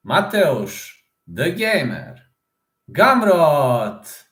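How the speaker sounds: big, drawn-out ring announcer call; playful fight-night introduction, rising to a shout. Pretend. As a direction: announce the fighter to a roaring arena, high and loud on the surname.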